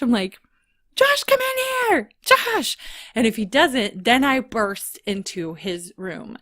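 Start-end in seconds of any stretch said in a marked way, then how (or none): 1.0-2.8 high-pitched pretend cry for help down the hall; calling for Josh. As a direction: imitate yourself calling from bed, pitched way up. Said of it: "I scream for Josh".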